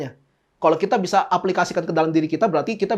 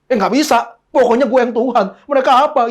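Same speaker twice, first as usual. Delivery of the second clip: brash bossy voice; mock selfish God; 4 semitones higher, 4 dB louder than usual. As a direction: play God as a bully, then deny it. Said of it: "eh, nggak gitu".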